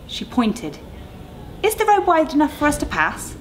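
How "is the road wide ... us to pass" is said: worried Maggie. Acted. Maggie worried about narrow road.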